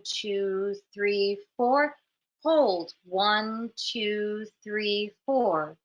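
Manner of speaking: slow, even count with a lift on four; steady meditation-teacher counting, each number drawn out; guided breathing count. Shown as a demonstration. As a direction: pace the breath in a measured, level sing-song. Leads a counted breathing exercise.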